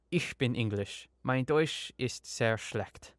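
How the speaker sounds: slow, halting English-speaker's German; broken German. Acted. English visitor answers a German lady on the train, broken German. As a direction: attempt German as a struggling beginner. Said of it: "in my very broken German".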